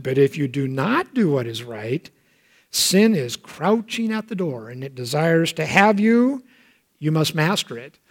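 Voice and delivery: quiet warning. Acted. God warns of crouching sin.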